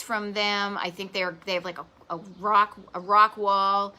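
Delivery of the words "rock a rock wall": Boston accent slipping out on rock wall; slow, Boston-accented rock wall. Real, not acted. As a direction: let a Boston vowel slip into rock. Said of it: "that's when my Boston accent comes out".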